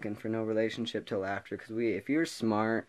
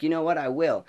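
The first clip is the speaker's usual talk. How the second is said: much higher, louder cocky reply; cheeky defiance; 7 semitones higher, 7 dB louder than usual. Retold or imitated. Student accepting teacher's dare, loud and cocky. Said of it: "I'm like".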